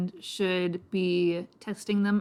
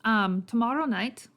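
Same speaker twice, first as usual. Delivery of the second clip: put-on lightly Irish-accented recruiter. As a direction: invite a reluctant newcomer with a light Irish lilt. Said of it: "I'm guessing he's more Irish".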